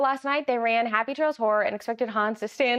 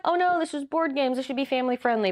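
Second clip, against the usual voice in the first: mock objection; 3 semitones higher, faster than usual. Player pretending to object that it's not family friendly, mock concern. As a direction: play a fussy objector, pitched up.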